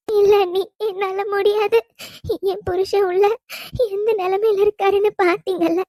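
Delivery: distressed wife, crying in broken phrases; tearful refusal. Acted. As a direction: refuse through tears, pausing to catch breath. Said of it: "ரொம்ப நேரமா இப்படி அழுதுகிட்டே இருக்கீங்க". (அழுகையோடு மறுத்து)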